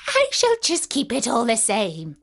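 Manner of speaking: lightly mocking witch voice; wicked witch, mildly gloating; taunting witch. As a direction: taunt her with a touch of glee. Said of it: "laughing at her".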